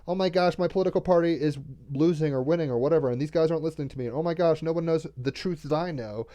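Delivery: lightly voiced worried whining about being unheard; mock fretting. Mimics fretful partisan complaining.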